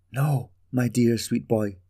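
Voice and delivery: tender mother. Acted. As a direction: soothe her boy gently. Mother answers her son.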